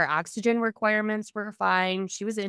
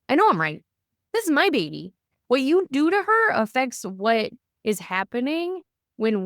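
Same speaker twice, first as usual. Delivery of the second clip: retold insistence; 7 semitones higher, 4 dB louder than usual. Retold self-assertion to staff.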